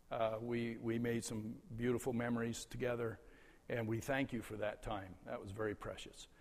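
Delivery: soft, tender gratitude; quietly sincere and moved; heartfelt thanks. Real, not acted. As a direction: speak softly, treasuring the memory.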